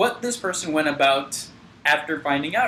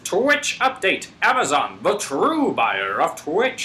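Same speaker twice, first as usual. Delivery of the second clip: newscaster voice. Acted. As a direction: announce it like the evening news. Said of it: "use the newscaster voice".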